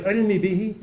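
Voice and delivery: turned inward, as if gulped down; said into yourself; swallowed, inward. Shown as a demonstration. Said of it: "you swallow it. It's something internal".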